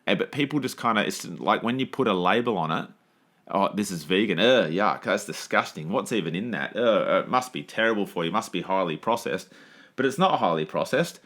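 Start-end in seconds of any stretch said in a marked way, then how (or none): 3.5-9.5 imitating a picky eater's revulsion; mock disgust. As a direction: recoil from the food, lightly hammed-up. Mimicking people put off by vegan label.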